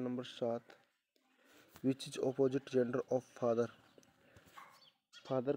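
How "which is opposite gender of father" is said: each word read out slowly and clearly; slow dictation. Shown as a demonstration. Teacher reading the question slowly to the class.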